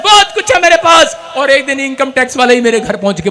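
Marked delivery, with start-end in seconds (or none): 0.0-1.1 shouted declaration. Retold or imitated. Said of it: "मैंने कहा".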